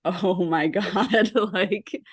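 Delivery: drawn-out words through a laugh; disbelieving laugh. Retold or imitated. Recalling a horrible memory of the program, laughing in disbelief.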